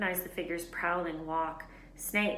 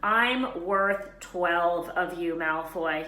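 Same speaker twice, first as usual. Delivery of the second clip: stammering; 6 dB louder, much slower than usual. Acted. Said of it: "he stammered".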